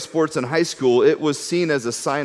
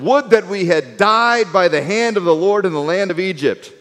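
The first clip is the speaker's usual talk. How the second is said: grumbling lament; 4 semitones higher than usual. Retold or imitated. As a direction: moan it like a hungry crowd. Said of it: "the people of Israel said to them".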